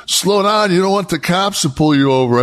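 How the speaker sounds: high, whiny mock voice of a nervous passenger; mocking Bam Bam. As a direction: squeak it like a scared backseat driver. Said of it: "Bam Bam goes".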